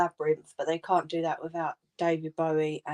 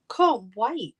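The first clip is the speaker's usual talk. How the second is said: higher, eager little squeal; excited daughter; 5 semitones higher, 4 dB louder than usual. Retold or imitated. Mum voicing the little lady's impatience, mock excited. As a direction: sound like a kid bursting to see it. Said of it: "The little lady got proper excited".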